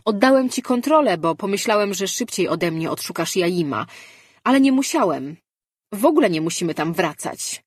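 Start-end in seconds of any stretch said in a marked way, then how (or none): 0.0-5.4 urgent insistence. Acted. Mirar argues urgently with Lejard.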